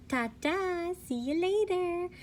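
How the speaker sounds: high, sing-song farewell; cheery goodbye. Acted. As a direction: wave them off brightly. Pigs waving goodbye.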